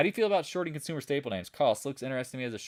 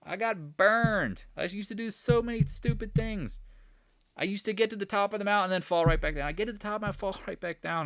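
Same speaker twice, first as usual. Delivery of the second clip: emotional; 8 semitones higher than usual. Retold or imitated. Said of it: "I get emotional thinking about it".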